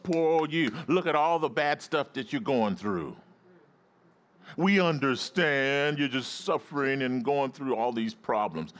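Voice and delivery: hammed-up commiseration; mock sympathy. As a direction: console with exaggerated pity. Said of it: "pat you on the back and stroke your head and say".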